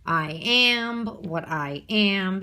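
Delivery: lightly voiced cartoon sailor catchphrase, drawn out; slow hint of an impression, leaning on "am"; Popeye. Teacher quoting a catchphrase to remember the iamb, light impression. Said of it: "Popeye in class to remember".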